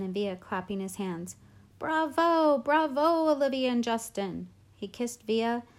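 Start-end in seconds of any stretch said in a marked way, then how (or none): 1.8-4.5 high, loud, ringing bravos; excited cheering. A narrator's reading. Teacher clapping for two student actors, excited cheering. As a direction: applaud them with your voice.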